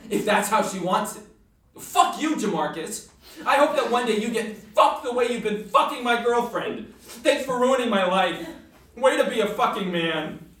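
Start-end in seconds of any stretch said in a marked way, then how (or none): 1.8-10.5 loud, bitter yelling with laughter breaking in; cursing off. Acted. Jilted boyfriend cursing the rival on the phone, loud and bitter. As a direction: spit it at the guy who stole her.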